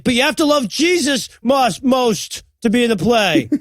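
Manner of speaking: lightly acted stern pastor; insistent pastor. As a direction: lay down the rule like a preacher. Pastor lays down condition, acted.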